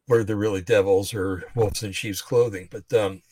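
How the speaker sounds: a little out of breath, talking on; short of breath between phrases. Real, not acted. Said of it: "a little out of breath here".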